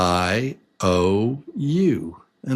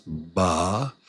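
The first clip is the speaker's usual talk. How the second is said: "Ba-na-na" in spaced, softer beats; separated syllables; 4 semitones lower, 5 dB quieter than usual. Shown as a demonstration. Teacher showing the mouth opens, separated syllables in "Ba-na-na". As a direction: open up on each separate syllable of "Ba-na-na". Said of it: "because your mouth opens".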